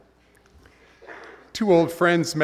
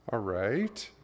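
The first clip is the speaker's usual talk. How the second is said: patient God; 6 dB quieter than usual. Retold or imitated.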